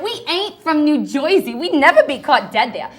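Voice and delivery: put-on New Jersey accent. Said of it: "learn how to talk like this".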